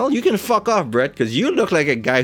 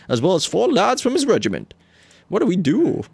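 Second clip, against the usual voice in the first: worried servant; 8 semitones higher than usual. Acted. Worried servant voiced in scene.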